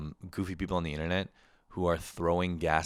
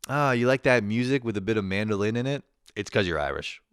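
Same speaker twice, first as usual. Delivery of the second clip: louder, knowing parent voice lecturing about heritage; hammed-up parent; 4 semitones higher, 6 dB louder than usual. Parent telling comedian son he's Irish, mock-knowing. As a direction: tease like a parent sure of the family roots.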